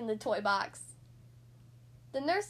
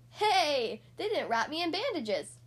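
cheering. Acted. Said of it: "Splat cheered".

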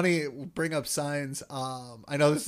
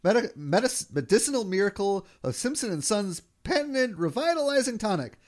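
chirpy trade show pitch; 2 semitones higher than usual. Retold or imitated. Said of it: "he goes".

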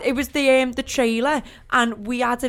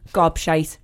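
a venomous gobshite, slightly lower; venomous insult; 6 semitones lower than usual. Shown as a demonstration. A friend demoing how she'd insult someone, with venom. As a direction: spit the word gobshite out with venom. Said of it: "I'd really give it some venom".

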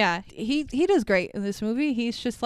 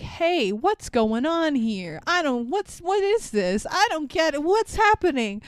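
confused hero; 5 semitones higher than usual. Retold or imitated. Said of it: "he'll be like".

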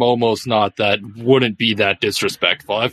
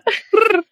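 lemur. Pretend. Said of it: "your best lemur in-, uh, impression that Aang does".

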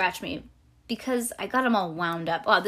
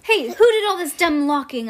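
higher, louder annoyed question; indignant demand; 8 semitones higher, 10 dB louder than usual. A narrator's reading. Girl facing another locked door, indignant demand. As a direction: demand to know who is to blame.

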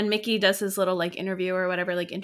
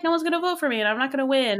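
whiny complaint; 4 semitones higher, much faster than usual. Retold or imitated. Mickey complaining, retold.

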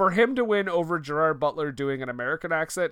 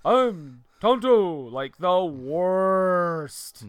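mock Tonto; much slower than usual. Mocking Johnny Depp's Tonto.

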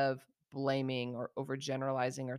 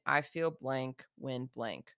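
calm, even tone; 4 semitones lower, slower than usual. Shown as a demonstration. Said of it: "You can just use a calm, even tone of saying".

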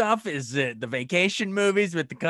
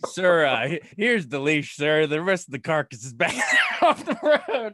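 giggling through the line; can barely get it out laughing; laughing through a quote. Retold or imitated. Quoting the movie, laughing.

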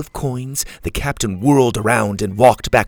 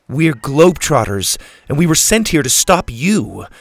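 high, loud defiant bark; indignant girl standing her ground; 5 semitones higher, 7 dB louder than usual. A narrator's reading. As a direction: declare it forcefully. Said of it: "Susie barked".

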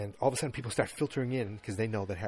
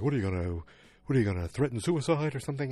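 loud, fast mock yell; angry; 4 semitones higher, 6 dB louder, faster than usual. Roger yelling at Jane through her door, loud mock anger. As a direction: snap at her mockingly. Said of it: "he was really angry".

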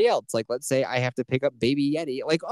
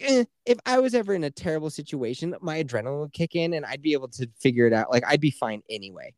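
catty voice; 2 semitones higher than usual. Retold or imitated. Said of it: "this is how he sounded, that catty bitch".

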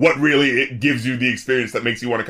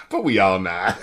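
imitating the rapper; 5 semitones lower than usual. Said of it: "it's the way he says".

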